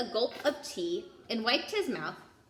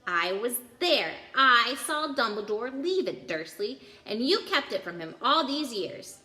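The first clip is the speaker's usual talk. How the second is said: furious accusation; 4 dB louder than usual. Acted. Hagrid accusing Vernon furiously.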